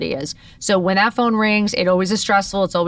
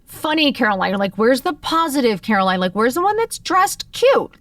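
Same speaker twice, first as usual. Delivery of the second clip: mourning lost self; 5 semitones higher than usual. Retold or imitated. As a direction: ask it like grieving who you were. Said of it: "I was like".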